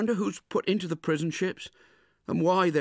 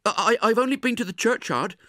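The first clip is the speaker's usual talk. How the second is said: high, loud furious scold; scolding sister; 7 dB louder than usual. Acted. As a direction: tear into the boy for being out. Angry sister scolds Pip.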